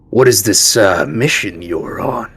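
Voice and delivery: lightly voiced leader, loud opening; probing camp leader. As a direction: play a leader questioning his guests. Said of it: "and he asks".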